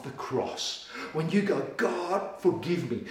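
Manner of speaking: slow, soft preaching; hushed. Real, not acted. Preacher hushing the church before forgiveness, soft and slow. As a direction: draw them in, barely above a breath.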